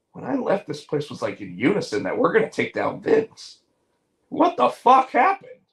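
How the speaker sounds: rising to an outraged yell; mock Kenny Omega outburst. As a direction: play Kenny baffled then blowing up. Kenny retold, angry outburst.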